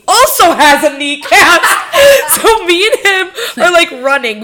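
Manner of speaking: high, giggling delivery; laughing. Real, not acted. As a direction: giggle through the line. Laughing while retelling.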